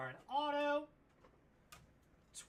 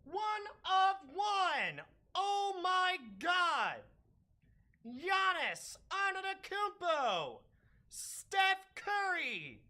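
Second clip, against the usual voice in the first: thrilled exclaiming; 4 semitones higher than usual. Real, not acted. Breaker revealing a triple Logo Man card, thrilled exclaiming. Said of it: "I'm screaming".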